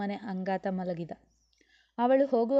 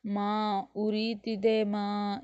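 lightly tearful whimper; much slower than usual. Acted. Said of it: "ದುಃಖಿಸುತ್ತಲೇ ಇದ್ದ ಅದ್ವಿ".

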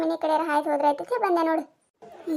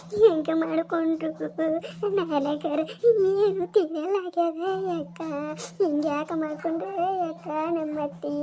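mourning wail; 3 dB quieter than usual. Acted. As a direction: grieve over the body, pleading through tears. Daughter-in-law mourning beside the body. (ಅತ್ತೆಯ ಶವದ ಮುಂದೆ ಮೆಲ್ಲಗೆ ಅಳುತ್ತಾ ಗೋಳಾಡುವುದು)

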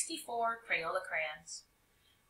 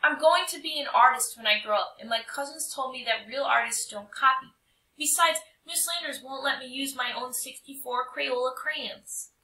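put-on earnest boy; 4 semitones higher, 4 dB louder than usual. Tommy explaining earnestly.

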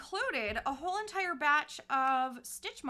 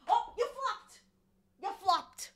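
delighted squeal; 6 semitones higher, 3 dB louder, slower than usual. Real, not acted. Cat flops, delighted.

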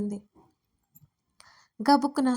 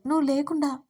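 mildly pained, higher in the middle; a lightly voiced aching confession; sad plea; 3 semitones higher than usual. Suriya tells Dharani he suffers without her, sadly. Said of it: "అన్నాడు బాధగా".

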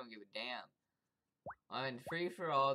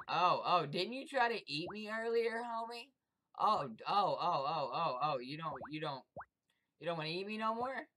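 high, laughing mockery; gleeful taunting; 3 semitones higher, 5 dB louder than usual. Real, not acted. Gamer mocking a player who ran away, high gleeful taunt. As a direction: crow over your rival.

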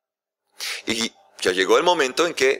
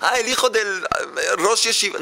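eager father; 7 semitones higher than usual. Acted. Father guesses again.

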